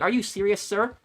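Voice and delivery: high, indignant mock caller; a touch of outraged saleswoman; mad disbelief. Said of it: "she got mad at me".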